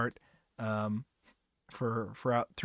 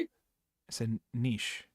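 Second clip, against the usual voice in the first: slow, deliberate; 3 semitones lower, 8 dB quieter, much slower than usual. Real, not acted. Answering the co-host who mocked his word, very slow and deliberate. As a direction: drag out "I said niche" very slowly.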